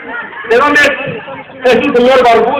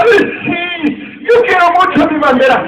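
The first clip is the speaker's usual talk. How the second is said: put-on high old man voice; 5 semitones higher, much slower than usual.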